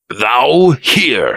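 a touch of irritated surprise; snapped. A narrator's reading. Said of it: "he snapped".

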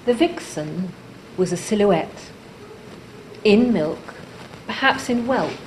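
measured poem recital with long pauses between phrases; deliberate, spaced-out verse reading; poetry reading. Acted. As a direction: read it line by line, letting each image land. Reads her own poem aloud.

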